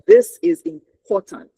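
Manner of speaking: high, loud, slow stress on every word of "This is important". Shown as a demonstration. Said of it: "Stress it".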